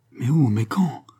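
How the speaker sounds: urgent, mildly heated questions; jealous anger. A narrator's reading. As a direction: demand it, burning with jealousy. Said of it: "frissonnante de jalousie et de courroux". (jalousie impatiente)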